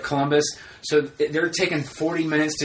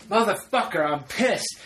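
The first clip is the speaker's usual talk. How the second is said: mock yell, pitched up without real volume; retold angry rant; 6 semitones higher than usual. Telling Sarah about the parked car, mock screaming. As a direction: re-enact going off, higher on the curses. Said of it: "I mean, I'm screaming".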